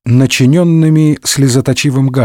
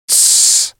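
whispered shushing hiss; hushing shh. Acted. Mazarin silencing d'Artagnan about the twin, whispered shh. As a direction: hush him with a finger to lips. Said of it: "прошептал Мазарини".

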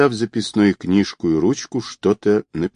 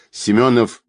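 usual speaking voice

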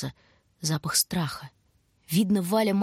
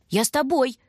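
high, louder insistent repeat; insisting; 7 semitones higher, 4 dB louder than usual. A narrator's reading. Little brother insists on going: high, louder, pushy. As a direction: keep pressing to come.

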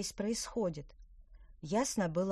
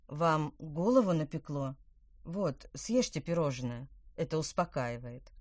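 sympathetic. Acted. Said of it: "сочувственно наклонил голову".

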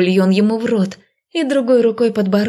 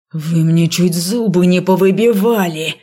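angry growl; 4 dB louder than usual. A narrator's reading. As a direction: growl through a hand over the mouth. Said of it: "прорычал он".

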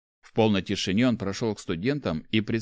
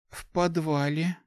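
slow, higher-pitched minimal answer; terse reply; 8 semitones higher, slower than usual. A narrator's reading. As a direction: give a reluctant short answer. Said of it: "односложно ответила Улья". (односложно, нехотя)

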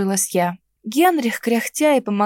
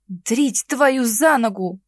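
прошипеть; 2 semitones higher, much slower than usual. Acted. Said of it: "прошипела я".

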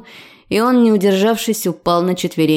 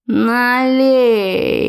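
put-on drunk father's demand; 4 semitones higher than usual. Drunk father begs for drink.

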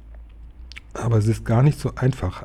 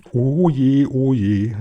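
lamenting cry of dismay; wailing; 3 semitones higher, 4 dB louder, much slower than usual. A narrator's reading. Frau Hai seeing her house taken over, wailing. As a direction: moan it out in mild despair. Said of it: "jammerte Frau Hai".

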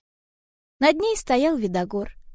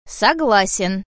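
conciliatory grumble; 4 dB louder, much slower than usual. Acted. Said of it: "примирительно пробурчал Видогор".

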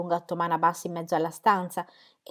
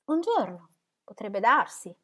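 trembling voice; 2 semitones higher than usual. Acted. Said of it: "disse Dorotea con voce tremante".

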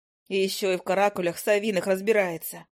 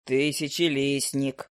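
lower, unhurried familiar's voice; a grumpy bird drawling down low; low owl familiar; 6 semitones lower, much slower than usual. Acted.

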